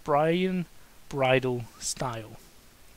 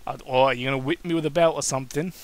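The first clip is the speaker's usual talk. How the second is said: sarcastic; 4 dB louder, faster than usual. Acted. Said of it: "asked with sarcastic attitude".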